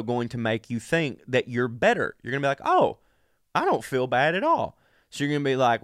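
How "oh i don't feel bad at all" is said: a very high "Oh", then breezy; mock delighted surprise. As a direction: act amazed the sickness is gone. Medicated self thinks he's cured.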